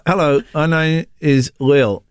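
slow puppet voice through still lips; ventriloquist dummy voice. Pretend. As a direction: speak for the dummy without moving lips. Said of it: "can you do ventriloquism?".

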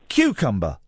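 cucumber said with a b at the end, low; own pronunciation. Shown as a demonstration. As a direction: say cucumber with a clear b. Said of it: "I would say".

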